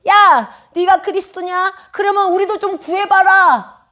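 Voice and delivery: high, loud taunting challenge; mocking jeer. Robber on the next cross jeering at Jesus, mocking. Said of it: "조롱하듯이 놀리면서 그러는 거예요".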